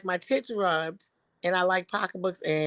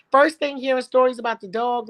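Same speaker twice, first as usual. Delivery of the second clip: ordinary talk, nothing marked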